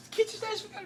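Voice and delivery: high, breathy whisper; dad's pleading whisper. Retold or imitated. Dad whispering to the kids after mom's outburst, high and hushed. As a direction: whisper as if hiding from mom. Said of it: "And dad's like".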